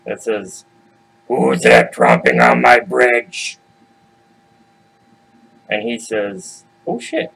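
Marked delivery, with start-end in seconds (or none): 1.3-3.6 slow, louder troll challenge; horrible troll. Acted. Troll under the bridge challenging the goat, slow and loud. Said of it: "horrible, horrible noise that says". 6.9-7.3 pitched way up in shock; startled. Acted. Young goat startled that the troll is real, high yelp.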